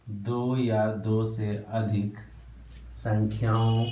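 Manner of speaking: dictated slowly with pauses; slow dictation. Shown as a demonstration. Teacher repeating the definition for students to copy, slowly. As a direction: spell it out slowly for note-taking. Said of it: "लिखो".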